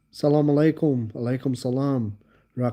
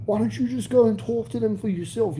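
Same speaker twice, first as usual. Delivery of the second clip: incredulous; 7 semitones higher than usual. Retold or imitated. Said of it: "I was like".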